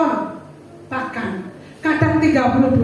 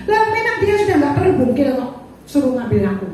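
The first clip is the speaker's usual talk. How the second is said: husband's raised reply; 3 semitones higher, 4 dB louder, faster than usual. Retold or imitated. Husband brushing off his wife, raised and dismissive. Husband answers wife's question.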